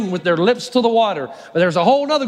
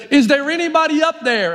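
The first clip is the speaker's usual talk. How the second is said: higher call up the cliff; 5 semitones higher than usual. Acted. Man on a branch calling up the cliff, higher. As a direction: shout up for help.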